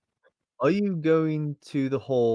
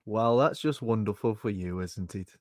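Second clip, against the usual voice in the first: sarcastic; 2 semitones lower than usual. Acted. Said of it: "not getting your sarcasm".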